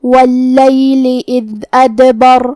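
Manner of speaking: slow chanted verse with bouncing dal in ادبر; measured Quranic chant; tajweed recitation. Shown as a demonstration. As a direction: recite it slowly and melodically.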